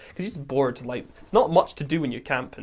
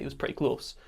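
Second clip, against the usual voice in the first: hushed whisper, telling of something close by; 9 dB quieter than usual. Retold or imitated. Friend whispering about the creature in the tree, hushed. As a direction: breathe it out, scared and quiet. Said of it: "And he was like".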